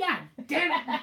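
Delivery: slow, drawn-out mock disappointment; mock frustrated groan. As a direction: drag it out like a sore loser. Bettors lose their bet.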